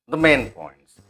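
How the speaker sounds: MAIN stressed, POINTS falling after it; teacher repeating MAIN POINTS for stress; sentence stress demo. Shown as a demonstration. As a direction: lean on MAIN, keep THE light. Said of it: "यहाँ पर stress है".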